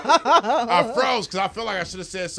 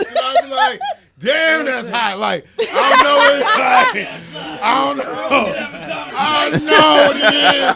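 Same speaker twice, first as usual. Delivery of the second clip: high laughing gush; cracking up at himself; 5 semitones higher, 5 dB louder, much slower than usual. Real, not acted. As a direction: giggle through the confession, slow. Laughing at his own confession.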